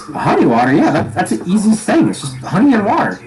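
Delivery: lightly voiced young waiter, pitch climbing; young Tabaxi waiter. Waiter answers an order for honey water, lightly voiced youngster. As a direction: play an eager young server, lightly. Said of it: "very young Tabaxi folk. Uh, he goes".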